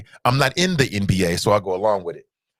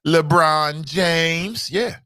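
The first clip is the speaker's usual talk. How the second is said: high, very slow drawn-out name; Shannon Sharpe voice again; 4 semitones higher, much slower than usual. Retold or imitated. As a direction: drag the name out like a taunt. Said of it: "I heard you say LeBron James".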